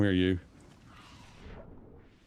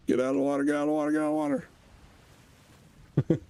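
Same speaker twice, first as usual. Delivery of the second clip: urgent; 5 semitones higher than usual. Real, not acted. Fleeing shark, urgent.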